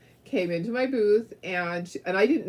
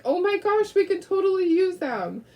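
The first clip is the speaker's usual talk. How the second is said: excited customer; 11 semitones higher, 4 dB louder than usual. Retold or imitated. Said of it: "she's like".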